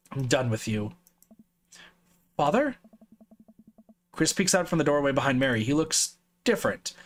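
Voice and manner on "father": put-on creepy child.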